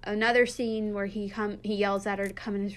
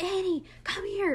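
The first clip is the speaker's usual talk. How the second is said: put-on much higher, called-out old man's summons; mock yell; 11 semitones higher than usual. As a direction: call her in like the grandfather. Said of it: "he, like, yells at".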